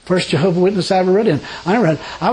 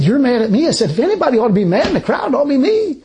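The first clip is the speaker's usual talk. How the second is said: retold indignation; 6 semitones higher than usual. Retold argument with Witness.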